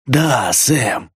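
jeering, mildly voiced; a light sneering taunt; mocking rasp. A narrator's reading. Ernesto taunts Sam, a hint of jeering. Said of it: "глумливо прохрипел Эрнесто".

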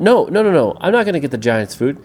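high, rapid-fire objection opening; protesting refusal. Acted. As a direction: protest like a cornered little character. Pedro refuses the rats' demand.

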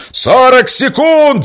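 slow, drawn-out high loud yell. Acted. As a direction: bellow the count as a warning. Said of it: "заорал Берёзов".

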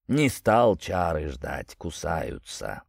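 mournful gurgle. Acted. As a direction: sigh it out like a gloomy sprite. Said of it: "тоскливо булькнула нечисть".

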